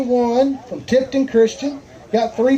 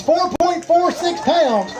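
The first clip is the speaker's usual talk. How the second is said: excited announcer call; 3 semitones higher than usual. Real, not acted. Emcee proclaims new big fish leaders, excited announcing. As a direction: proclaim it slowly to the whole crowd.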